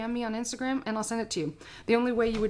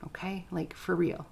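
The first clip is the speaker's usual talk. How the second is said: earnest hush; 6 dB quieter than usual. Real, not acted. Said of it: "earnest plea to viewers".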